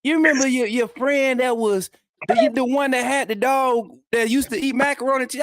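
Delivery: hammed-up high confused son; imitating himself. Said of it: "And I be like".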